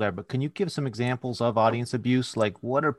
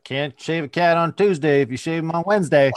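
mock Southern saying; 4 semitones higher, 4 dB louder than usual. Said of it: "They're just like".

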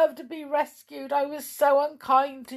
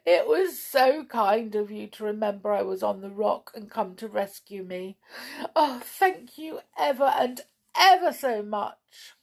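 weeping; 5 semitones higher than usual. Acted. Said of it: "wept Amelia".

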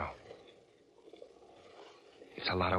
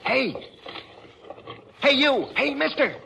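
high, loud hail to a stranger; calling out; 5 dB louder, slower than usual. Real, not acted. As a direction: shout to stop the passing wagon. Calling out to passing wagon.

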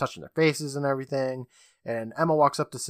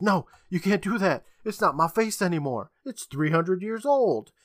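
high-pitched mock protest; yelling; 6 semitones higher than usual. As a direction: wail it as a desperate villain, hammed-up. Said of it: "as Visage yells".

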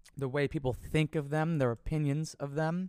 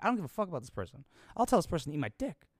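fast, softer rushed comeback; mock muttered retort; 3 dB quieter, much faster than usual. Answering the bosses, fast muttered mock retort. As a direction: rattle it off under your breath.

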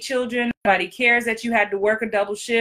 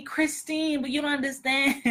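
higher, softer whiny Kevin Hart pleading; a light Kevin Hart take on a complaining client; 3 semitones higher, 6 dB quieter than usual. Retold or imitated. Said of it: "I'm doing my Kevin Hart voice".

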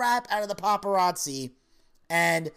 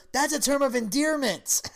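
a touch higher, mock soothing husband; reassuring husband; 9 semitones higher than usual. Husband convincing his upset wife on the plane, mock soothing. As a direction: sell the white lie sweetly, lightly imitating. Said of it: "He goes".

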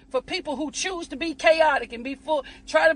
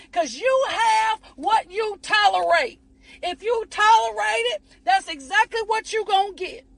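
raised, driving preacher cadence; full preaching; 3 semitones higher than usual. Acted. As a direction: preach it, hammering each line.

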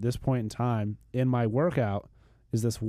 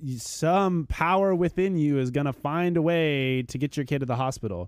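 motivational speaker; 5 semitones higher, 4 dB louder than usual. Real, not acted. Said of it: "Cue the Tony Robbins commercial".

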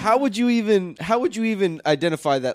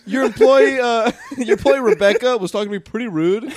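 laughing, higher whiny tattle; mock complaint; 4 semitones higher, 4 dB louder than usual. Friend mocks a customer complaining to a manager, laughing. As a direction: play the customer snitching, giggling.

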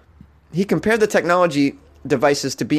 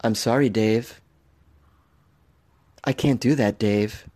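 slightly lowered movie-AI impression; lightly voiced movie computer; 3 semitones lower, slower than usual. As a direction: imitate the film's controlling AI, measured and restrained. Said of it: "It's just like that movie".

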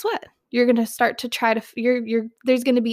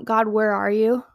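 an abandoned, accusing "God, where are you?"; accusing, doubting tone; 3 semitones lower than usual. Shown as a demonstration. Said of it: "change our tone from".

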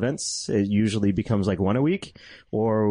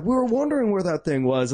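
put-on light Kiwi accent on a quote; quoting in a New Zealand accent; 7 semitones higher than usual. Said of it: "Was that a New Zealand accent?".

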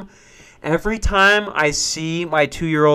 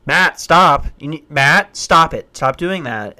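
stern scolding; 5 dB louder, slower than usual. Retold or imitated. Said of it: "I can't be like".

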